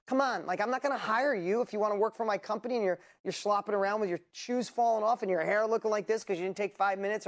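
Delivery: put-on loud scolding of a lazy kid; stern parent lecture. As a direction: lecture like a strict dad. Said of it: "that was my gram, that was my dad".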